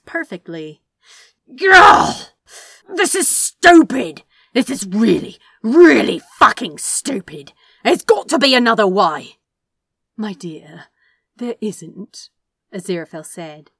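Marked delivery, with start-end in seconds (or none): 1.6-9.4 loud, much higher furious yelling; shouting protest. Acted. Crowley yells in protest. 10.2-12.3 calm. Acted.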